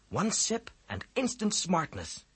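regretful. A narrator's reading. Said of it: "he said regretfully".

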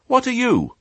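very high piglet question; curious piglet. Acted. Piglet asking the old sheep back, high and curious. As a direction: pipe it up as an eager little pig.

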